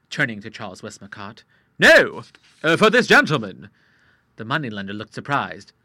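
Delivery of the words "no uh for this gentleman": put-on louder, higher hesitant old sailor; flustered old Admiral. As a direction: blurt it out, embarrassed.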